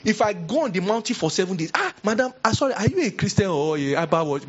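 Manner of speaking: scolding another woman high and outraged; mock indignant neighbour. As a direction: put her in her place.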